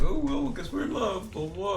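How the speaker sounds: high, loud, dismissive imitation; mock the couple's offhand romance; mocking lovers' quote. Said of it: "and they're like".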